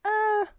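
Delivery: drawn-out high-pitched uh; high doubtful "uh". Retold or imitated. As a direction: let out a high, hesitant noise. Imitating own doubtful reaction.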